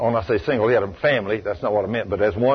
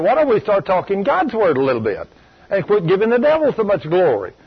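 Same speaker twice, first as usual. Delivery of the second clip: retold scolding; 6 semitones higher than usual. Still scolding the complaining caller.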